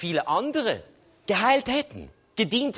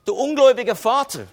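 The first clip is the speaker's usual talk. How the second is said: mock rebuke; 5 semitones higher, 6 dB louder than usual. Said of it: "Er hat nicht gesagt".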